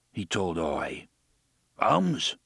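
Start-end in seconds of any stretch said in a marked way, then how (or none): 1.8-2.4 a small high animal yelp of agreement; Oy the bumbler. A narrator's reading. Oy answering Jake with a small high yelp. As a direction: chirp it like a little critter. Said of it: "Oy agreed".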